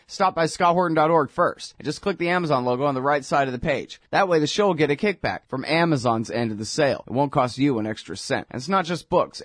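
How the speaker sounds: brisk, fast sponsor plug; ad read. Acted. Host thanking listeners and pitching the Amazon link, brisk ad read. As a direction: rattle off the ad quickly and cheerfully.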